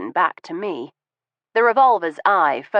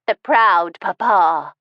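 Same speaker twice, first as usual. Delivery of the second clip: louder, slow sneer at the husband; 4 dB louder, slower than usual. Acted. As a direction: twist the words with contempt. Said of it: "her mouth twisting as it shaped the words".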